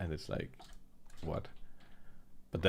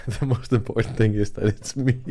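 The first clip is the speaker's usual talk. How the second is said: put-on a Danish accent from an overexcited speaker, much louder, with a laugh; 3 semitones higher, 9 dB louder than usual. Mimicking the Danish accent for stream viewers, loud and excited. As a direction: play an overexcited Dane who can't wait to talk. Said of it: "they sound like this".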